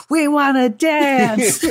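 high, slow, laughing cry of We wanna dance!; hammed-up high-pitched cry through a laugh; mock woman's cry. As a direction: wail it like a woman dragged off mid-party. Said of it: "that one woman who's like".

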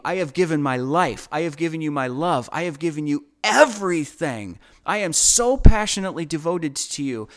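mild mock yell, passionate and accusing; retold angry screaming. Angry believer crying out to Allah for answers, retold scream. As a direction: act out bitter accusations without really screaming. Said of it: "he starts screaming".

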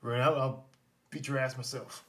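low-key, quiet acted threat; imitated tough talk, kept quiet; muttered threat. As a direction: mutter it softly under your breath. Acting out Eugene's muttered threat.

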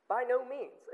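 emphatic negative with a falling NO; emphatic denial. Retold or imitated. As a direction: flatly rule it out, leaning on NO. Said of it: "severe negative".

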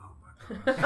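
high, startled "oh my God"; half-laughing retold shock; mock dismay. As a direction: recoil in amused alarm. Recalls shock at warning.

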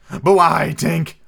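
loud, high pleading why; anguished cry. A narrator's reading. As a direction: cry out to the dying fairy. Peter cries out at dying Tink.

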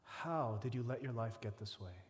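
soft, hushed lament of a mother; a quiet, heartbroken plea to a lost son; grieving mother. Retold or imitated. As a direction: mourn over a lost son, softly. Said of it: "I picture Jesus like this mother".

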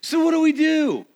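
high, loud stress on we; emphatic question. Real, not acted. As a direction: call it out to the crowd, leaning on we. Preacher's rhetorical question.

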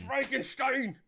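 high-pitched mock title announcement; put-on dramatic high voice; theatrical echo. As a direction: exclaim it as a hammed-up echo.

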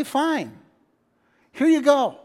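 sarcastic God. Acted. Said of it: "he might say".

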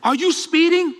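high-pitched, alarmed backseat question; mock accusing yell. Mother to driver from the back seat, mock accusing yell. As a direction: imitate a panicky backseat driver.

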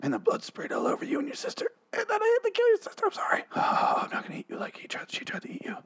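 hammed-up high, squeaky crying; mock sobbing. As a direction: blubber a confession through fake tears. Acts dad breaking down, sobbing.

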